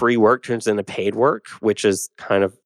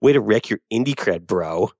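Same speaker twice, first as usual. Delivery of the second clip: a hint of a frat bro sneer. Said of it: "That's like my brotastic bro voice".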